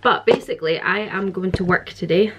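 breathless after climbing stairs; out of breath. Real, not acted. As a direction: talk while catching your breath. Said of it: "I'm out of breath 'cause I just came upstairs".

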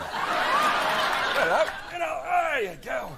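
hammed-up Aussie accent, soap melodrama; Australian soap opera. Security guard greets intruder in mock Australian accent. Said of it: "Australian soap opera".

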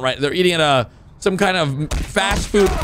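normal talking voice

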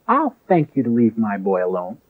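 mother firmly shooing the elder off, in Irish; Irish accent. Retold or imitated. A mother telling the elder to leave her son alone, mild Irish accent. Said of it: "in her Irish accent".

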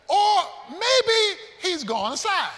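slow, high sneer; sarcastic mock. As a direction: stretch it out to mock them. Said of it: "he mocks them".

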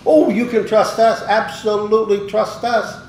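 high and loud, laughing through the buyers' promise; imitating them with a chuckle; laughing mock reassurance.

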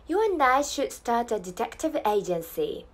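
slow Australian accent for learners; careful Australian pronunciation, unhurried; Australian English model. Shown as a demonstration. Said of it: "オーストラリア英語の発音ポイント".

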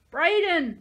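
loud, high anguished scream; desperate scream. A narrator's reading. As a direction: scream for him from outside. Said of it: "Sahalia was screaming".

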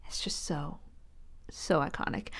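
unvoiced, breathless whisper. Real, not acted. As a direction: whisper it through giggles. Whispered amid laughter.

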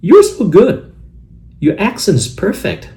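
very high, drawn-out compliment; effusive praise. Acted. Complimenting the greeter's Chinese accent, high and gushing. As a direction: lay on exaggerated admiration.

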